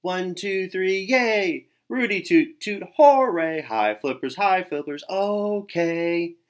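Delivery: loud high cheering; excited cheer. A narrator's reading. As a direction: lead the crowd joyfully. Third cheer, everyone joins.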